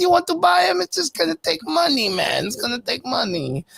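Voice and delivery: high squeaky bargaining merchant; stereotyped Jewish accent. Retold or imitated. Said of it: "Fucking Greedo, bro".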